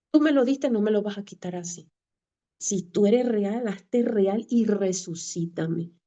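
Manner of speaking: insistent retold prayer to God; pleading, as remembered; retold plea. Desperate prayer to God in car.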